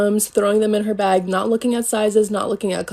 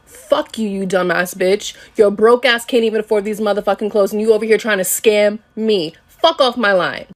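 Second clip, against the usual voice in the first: retold angry telling-off, building louder; cursing her out; 4 dB louder than usual. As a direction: curse out the customer, punching the words. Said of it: "I'm still cursing her out".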